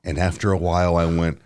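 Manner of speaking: low, soft hushed voice; hushed storytelling. Real, not acted. Confessing a shroom story quietly to the mic. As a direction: tell it under your breath. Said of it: "we'll talk quietly".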